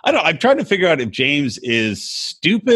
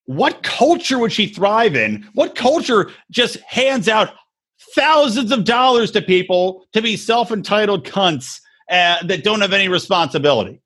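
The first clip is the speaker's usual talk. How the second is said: incredulous rant; 5 semitones higher than usual. Retold or imitated. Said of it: "And I'm like".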